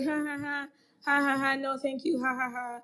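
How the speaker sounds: forced ha-ha around a refusal; polite fake laugh. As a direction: laugh it off while declining, half-hearted. Retells laughing off an unwanted advance.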